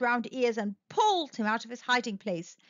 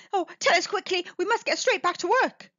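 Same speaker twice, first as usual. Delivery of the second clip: impatient; 7 semitones higher, faster than usual. A narrator's reading. Animals impatient to get working.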